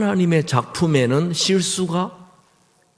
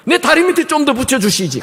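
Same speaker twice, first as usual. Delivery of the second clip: much higher and louder complaint to God; indignant kid shaking a fist at heaven; hammed-up childhood anger; mock outrage; 12 semitones higher, 7 dB louder than usual. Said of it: "얼마나 화가 나든지".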